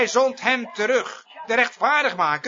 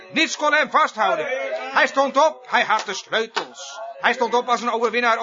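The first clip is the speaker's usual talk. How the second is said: rousing pulpit proclamation, phrase piled on phrase; forceful preaching. Real, not acted. Preacher proclaiming the risen victor to the congregation, forceful preaching. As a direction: drive each victory home with real fervour.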